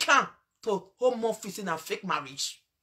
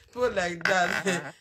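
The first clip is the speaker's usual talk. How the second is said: laughing scorn; 5 semitones lower than usual. Real, not acted. Laughing while scolding.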